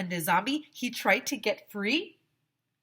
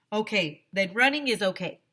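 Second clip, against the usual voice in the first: principal shouting; 2 semitones higher, 3 dB louder than usual. Acted. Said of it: "shouted Mister Klutz".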